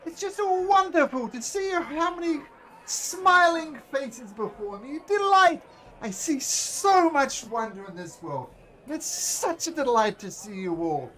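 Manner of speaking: booming high showman's welcome, then slowing down; grand ringmaster. Acted. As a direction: announce it like a circus ringmaster to the crowd. Mister Light greets the crowd.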